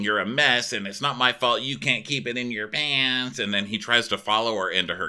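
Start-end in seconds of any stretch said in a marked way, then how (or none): 0.0-3.4 mild mock yell, pitch raised; half-hearted screamed accusation; retold scream. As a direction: imitate an angry rant at half force. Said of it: "and he's screaming".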